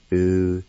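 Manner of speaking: "U-ni-hye-sti" said as oo-nee-hyeh-stee, each syllable apart; Cherokee syllables. Shown as a demonstration. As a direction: break "U-ni-hye-sti" into four clean syllables. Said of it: "Second part".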